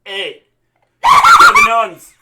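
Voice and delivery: shouted Canadian wrestler impression; over-the-top high-pitched shout; Kevin Owens. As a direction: yell it high and very loud. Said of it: "He's Canadian".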